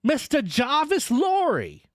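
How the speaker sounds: high, drawn-out hail; calling a name. A narrator's reading. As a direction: call a name across the distance. Stranger calls a name from mist.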